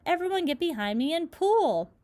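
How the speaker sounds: high, loud rallying command; rally the crew to heave; shouted order. Acted. Grasshopper rallies the others to pull, loud shout. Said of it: "shouted the old green grasshopper".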